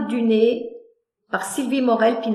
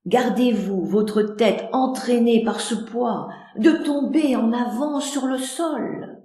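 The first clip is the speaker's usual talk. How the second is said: considerate. Acted. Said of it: "Prévenant".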